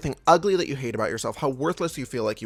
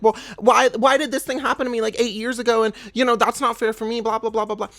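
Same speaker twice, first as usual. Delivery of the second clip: high, louder whining parody of a self-pitier; mock whiny complaint; 7 semitones higher, 4 dB louder than usual. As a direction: whine it like a sulky victim. Mocking a self-pitying whiner.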